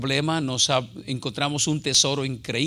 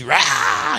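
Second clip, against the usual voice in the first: mock spirit outburst; 5 dB louder than usual. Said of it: "se le mete un espíritu así".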